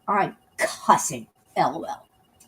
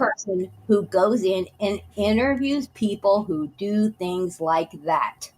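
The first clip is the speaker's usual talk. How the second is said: mocking quote; slower than usual. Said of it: "you just revealed yourself right there".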